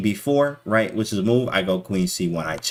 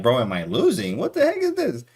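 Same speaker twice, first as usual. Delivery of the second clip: panicked disbelief; 4 semitones higher than usual. Retold or imitated. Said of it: "to, like".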